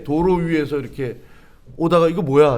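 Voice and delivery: usual speaking voice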